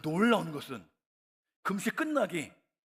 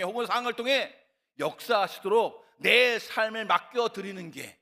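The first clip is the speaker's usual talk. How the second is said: normal talking voice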